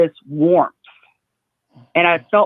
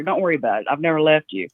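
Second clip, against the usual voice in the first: brotherly reassurance; 3 semitones lower, faster than usual. Retold or imitated. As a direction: reassure a little sister, easy and low-key. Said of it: "like a brother to a sister".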